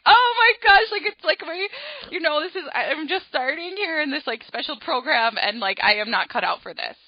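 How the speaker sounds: high, loud burst of panic fading to a fretful ramble; panicked child. Retold or imitated. Shy child panicking at the podium, high and fretful. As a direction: blurt out the fear, then spiral. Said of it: "And I was like".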